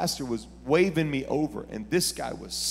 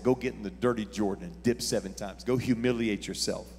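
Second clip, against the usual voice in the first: prophet's command, building; 6 dB louder than usual. Retold or imitated. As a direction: let the prophet's orders climb to a shout. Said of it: "And the prophet said".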